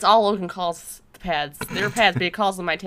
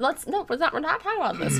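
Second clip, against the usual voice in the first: laughing; 6 semitones higher, 3 dB quieter, faster than usual. Real, not acted. Laughing while deflecting.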